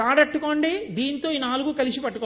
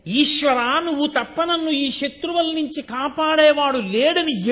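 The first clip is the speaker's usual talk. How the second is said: slow, raised call to Ishwara; loud cry to God; 2 semitones higher, 3 dB louder, slower than usual. Retold or imitated. Devotee crying out to God to save him, slow loud call. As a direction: call out to God for rescue, drawn out. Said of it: "ఎలుగెత్తి అరిచి చాటి చెప్పడమే".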